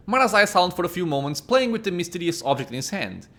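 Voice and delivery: measured storyteller reading; story narration. A narrator's reading. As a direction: narrate the scene like an audiobook. Reads game narration.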